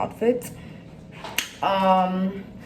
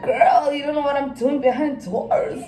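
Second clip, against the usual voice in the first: higher, louder playful sass; sassy comeback; 4 semitones higher, 4 dB louder than usual. Retold or imitated. Vlogger teasing a friend about her weight loss, playful sass. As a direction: tease her with a knowing comeback. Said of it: "I'm like".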